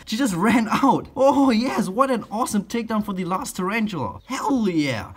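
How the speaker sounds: breathless excited talk; panting between words; out of breath. Real, not acted. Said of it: "I'm already like out of breath".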